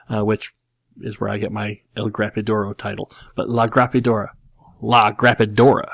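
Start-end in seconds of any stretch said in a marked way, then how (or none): 3.5-5.9 put-on lightly done terrible Texan Spanish accent; George W. Bush Spanish. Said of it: "it's a terrible Spanish accent".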